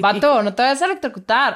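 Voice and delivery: put-on light Monterrey norteño accent; mock regio accent from Monterrey; northern Mexican accent. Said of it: "eso lo dijo con acento regio".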